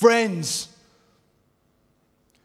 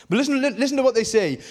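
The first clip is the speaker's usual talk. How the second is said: urgent; 6 semitones higher, faster than usual. Real, not acted. Urgent rush into quote.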